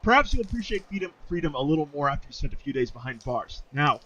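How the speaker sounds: put-on British-accented officer. Officer warning jailed refugees, stern British accent. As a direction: threaten them in amateur British. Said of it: "says Officer Vita".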